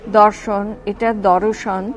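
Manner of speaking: দর্শন said slowly as দরোশন; slow clear pronunciation. Shown as a demonstration. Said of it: "তালবা শয়রে ফ্ল". (ধীরে দর্শন উচ্চারণ)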